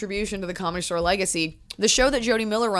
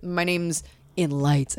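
slow mock grandeur; 2 semitones lower, much slower than usual. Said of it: "I was like".

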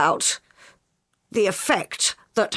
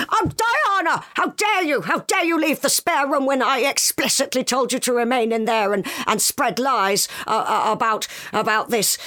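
shaking with anger; 2 semitones higher than usual. Retold or imitated. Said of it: "He was".

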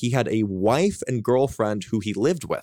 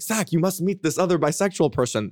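higher-pitched, badly faked French accent; 6 semitones higher than usual. Imitating older French couple urging an introduction, bad French accent. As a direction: attempt a French accent and do it poorly. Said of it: "That was the worst French accent".

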